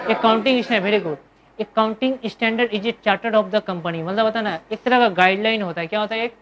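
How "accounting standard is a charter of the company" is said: very slow, every word laid out for notes; slow dictation. Shown as a demonstration. Teacher dictating the definition to his students, slow and deliberate. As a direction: spell it out slowly so the class can write it down. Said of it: "teacher dictating a definition".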